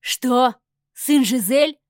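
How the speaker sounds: loud furious disbelief; husband flaring up at his wife; enraged outburst. Acted. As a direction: erupt in rage. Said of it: "взъярился Рауль".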